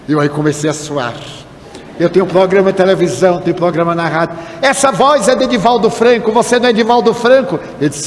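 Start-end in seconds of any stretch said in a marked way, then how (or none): 4.6-7.6 higher, quicker retold questioning; startled recognition. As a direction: press him, acting out sudden recognition. Man recognizes the speaker's voice.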